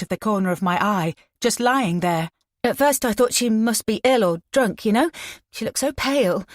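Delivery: put-on an upset girl telling what she found; shaken young woman. Frightened girl voiced at length.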